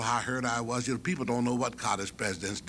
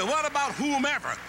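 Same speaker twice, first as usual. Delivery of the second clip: much higher, eager student; student's voice; 4 dB louder than usual. Retold or imitated. Mouse questioning the president, high and eager. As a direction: ask it brightly.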